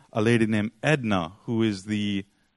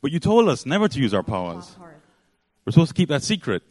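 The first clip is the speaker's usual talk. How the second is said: lightly voiced children protesting, pitch raised; mock child's protest, louder toward the end; protesting kids; 3 semitones higher, 5 dB louder, faster than usual. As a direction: object like a confused kid. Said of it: "the kids say".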